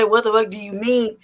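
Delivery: mildly indignant retort, fuller voice; unfiltered challenge. Retold or imitated. Customer's unspoken reply to the waitress, unfiltered challenge. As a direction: let the held-back challenge out, only mildly heated. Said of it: "I was about to just say".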